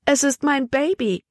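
high, urgent exclamation; excited cry. A narrator's reading. Emma jumps up hearing her child, excited cry.

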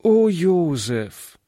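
slow, pleading call of his name; pleading girl. A narrator's reading. Girl begging the boy not to quarrel, slow and pleading. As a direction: beg him gently to stop. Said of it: "bat Hannchen".

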